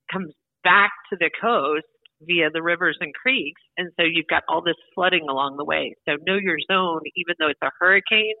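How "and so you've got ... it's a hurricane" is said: phone line audio; talking down a phone line; over the phone. Real, not acted. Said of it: "we're on the phone right now".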